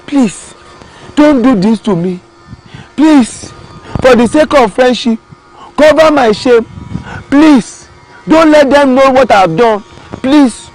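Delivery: begging. Acted. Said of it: "The tortoise started begging".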